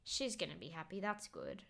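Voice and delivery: low, very soft quote; retold quiet resignation. Retelling him rubbing his eyes after rejection, subdued. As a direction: sink the voice right down, imitating someone heartbroken. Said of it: "he rubs his eyes and he goes".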